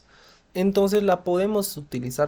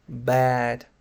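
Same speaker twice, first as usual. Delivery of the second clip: sad intonation. Shown as a demonstration. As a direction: sound like you're feeling bad. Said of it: "Escuchen la entonación también".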